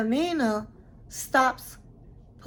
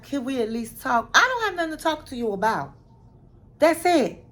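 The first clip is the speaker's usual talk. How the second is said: retold snap, rising louder to a shout; angry quote; 5 semitones higher, 4 dB louder than usual. Annie shutting down Amina's request to talk, rising to a shout. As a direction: cut her off, getting louder. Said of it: "And she was like".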